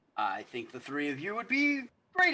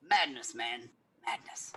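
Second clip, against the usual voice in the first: awed whisper; 2 semitones lower, slower than usual. Acted. Noble marvels at feat.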